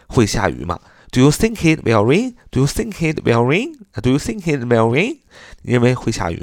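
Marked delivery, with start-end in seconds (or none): 1.1-2.3 "think it" run together, rising at "rain"; linked speech. Shown as a demonstration. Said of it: "经常呢会连读". 2.5-5.2 "think it" run together, rising at "rain"; linked speech. Shown as a demonstration. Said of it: "经常呢会连读".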